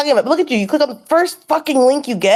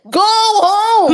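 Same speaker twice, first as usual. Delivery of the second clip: angry yell; 9 semitones higher than usual. Real, not acted. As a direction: yell at him to leave. Angry at him staying on stream.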